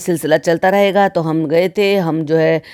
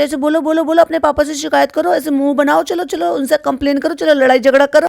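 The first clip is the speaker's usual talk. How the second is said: high-pitched, insistent mock coaching; pitched-up mock urging; mimicking a goading mother; 7 semitones higher than usual. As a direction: egg the child on, in imitation. Imitating mother egging child on.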